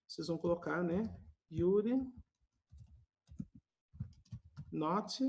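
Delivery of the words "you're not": contracted model. Shown as a demonstration. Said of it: "ou simplesmente".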